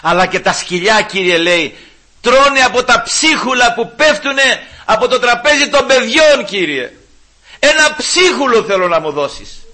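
pleading woman. Retold or imitated. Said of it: "Λέει, «Κύριε, ναι".

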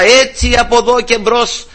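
acted street proclamation, high and sustained; high mock announcement at moderate volume; herald's cry. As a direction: proclaim it like a crier, half-shouted. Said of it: "και φώναζε μπροστά".

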